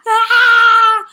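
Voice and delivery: very loud, high fake bawl; mock child's crying. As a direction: bawl over mom's question. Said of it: "él llega llorando". (berrido fingido, fuerte y agudo)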